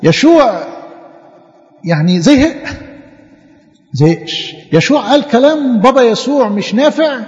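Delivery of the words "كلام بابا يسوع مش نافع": lightly acted, higher-pitched doubt; doubting complaint. Teacher acts out a doubter for children, doubting complaint. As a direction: raise the pitch for a mild acted protest. Imagined doubting Joshua questioning God.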